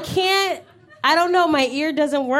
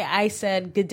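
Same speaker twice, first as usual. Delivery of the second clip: British try; 6 semitones lower, 3 dB quieter than usual. Shown as a demonstration. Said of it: "wait, say".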